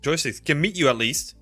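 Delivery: ordinary talk, nothing marked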